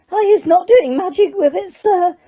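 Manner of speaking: very high, tearful squeak; squealing elf. A narrator's reading. Elf in tears protests to Diggory, squealing. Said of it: "squealed Winky".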